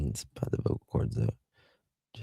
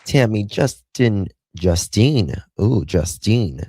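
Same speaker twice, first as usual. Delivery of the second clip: louder, drawn-out calling of names; 3 semitones higher, 6 dB louder, slower than usual. Real, not acted. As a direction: call out to the viewers by name.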